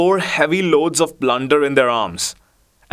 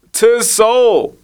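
a much higher, louder hammed-up bandit cry; 10 semitones higher, 6 dB louder than usual. A narrator's reading. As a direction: bellow it like a pompous fat bandit. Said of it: "cried the fat man".

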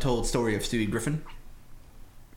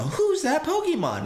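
imitating the show; 14 semitones higher, slower than usual. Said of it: "they're doing the".

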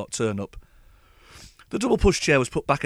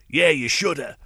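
a bit louder, eager cockney agreement; enthused cockney grandson; 2 semitones higher, 4 dB louder, slower than usual. Retold or imitated. Grandson cheering on his grandad, in an eager cockney accent. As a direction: chime in keenly in a light cockney voice. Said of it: "enthused his grandson".

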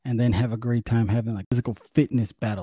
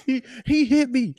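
high, whiny finger-pointing voice; mock accusing teammate. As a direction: play the wounded player who blames him.

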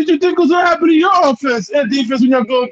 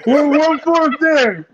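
mock correcting voice; 5 semitones higher, slower than usual. Mocking friend's halfway claim.

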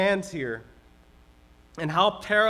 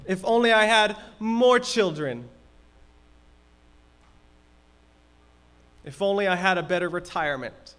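complaining voice; 3 semitones higher, 4 dB louder than usual. Pretend. Listing discontented wishes.

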